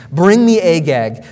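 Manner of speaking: loud, firm order; stern prophet's summons; command. Acted. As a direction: demand it with authority. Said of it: "It's a command".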